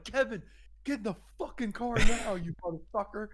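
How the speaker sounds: high, loud mock-furious command; retold urgent order. Teller orders drunk friend into cab, mock furious.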